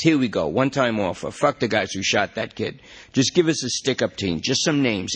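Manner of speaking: coaxing detective. Acted. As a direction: talk the junkie into cooperating. Matty makes offer.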